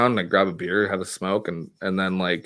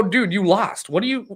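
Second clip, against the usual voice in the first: incredulous retort; 8 semitones higher than usual. Retold or imitated. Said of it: "And I go".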